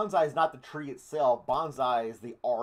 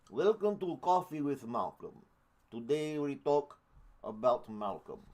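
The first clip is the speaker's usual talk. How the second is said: mock Russian accent. Mock show intro after Russian impression.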